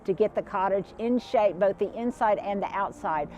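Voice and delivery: talking through a numb, cold mouth; cold stiff mouth. Real, not acted. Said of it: "I can hardly talk, Stuart, my mouth is cold".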